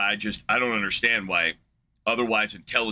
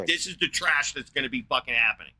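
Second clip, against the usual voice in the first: angry rant; 3 semitones higher than usual. Real, not acted. Ranting at the stupid conversation.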